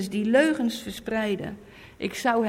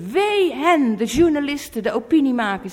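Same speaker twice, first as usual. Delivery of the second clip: wee luid en hoog uitgeroepen; luide waarschuwing; 3 semitones higher, 5 dB louder than usual. Real, not acted. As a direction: roep het wee uit over de misleiders. Prediking over misleiders. (luid predikend wee)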